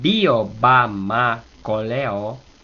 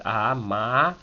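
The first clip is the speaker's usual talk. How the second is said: "A, ma" rising moderately on "ma"; a measured climb through "A, ma"; rise to middle. Shown as a demonstration. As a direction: lift "ma" only to mid height. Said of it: "sube hasta el medio".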